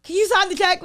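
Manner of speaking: put-on high, loud childish voice; mock baby voice asking a question. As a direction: squeak it like a little kid. Mocking a childlike customer voice.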